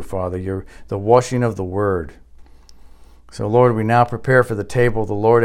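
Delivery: measured, earnest congregational prayer; public prayer. Real, not acted. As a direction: lead the congregation in solemn prayer. Leads the closing prayer.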